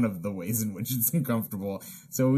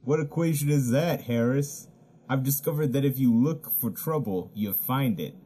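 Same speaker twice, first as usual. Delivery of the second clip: sultry woman. Acted. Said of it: "your voice of a sexy cartoon lady".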